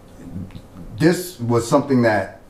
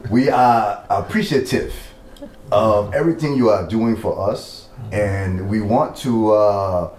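light Liberian English accent. Shown as a demonstration. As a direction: speak it with a gentle Liberian accent. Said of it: "interview in the Liberian accent".

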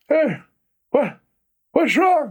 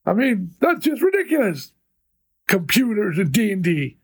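back in my day rant. Acted. Old man rant continues.

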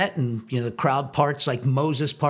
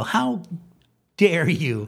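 indignant; 3 semitones higher, slower than usual. Retold or imitated. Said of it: "I still think about that and I go".

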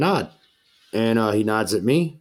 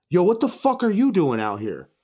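higher-pitched, acted-out disbelief; retold astonishment; 7 semitones higher than usual. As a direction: play his surprise at finding you there. DJ astonished to spot him.

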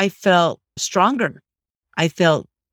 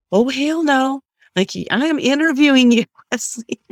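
mock indignant outburst; 8 semitones higher than usual. Retold determined outburst.

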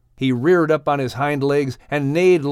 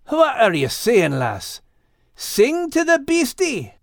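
puzzled dog voice; 9 semitones higher than usual. Acted.

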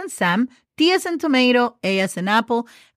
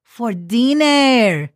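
Would you like to go for dinner said slowly and evenly; slow careful phrase; much slower than usual. Shown as a demonstration. Teacher slowly presents the dinner invitation phrase. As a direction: draw the phrase out for note-taking. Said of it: "let's learn how to say".

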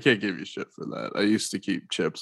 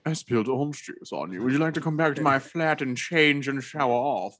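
put-on English accent; 4 semitones higher than usual. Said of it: "an English dude be like".

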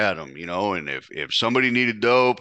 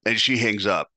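normal talking voice

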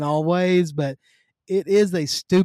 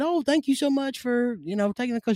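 retold polite thanks; 8 semitones higher than usual. Replays his polite phone call.

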